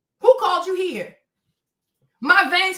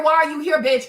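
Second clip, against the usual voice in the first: ordinary talk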